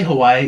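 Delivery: Hawaii run together as huh-why-ee; mainland Hawaii. Shown as a demonstration. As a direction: say Hawaii smoothly, no break before the ee. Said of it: "you're very white".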